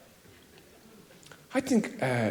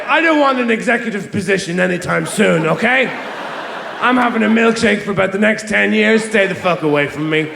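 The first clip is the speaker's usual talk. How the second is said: slacker trousers voice. Retold or imitated. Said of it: "these things that say".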